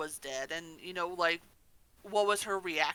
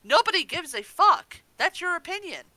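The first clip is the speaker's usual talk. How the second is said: louder and higher, fed-up outburst; exasperated rant; 8 semitones higher, 8 dB louder than usual. Real, not acted. Ranting at fans who post complaints online, loud and exasperated. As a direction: let the frustration boil over at whiny fans.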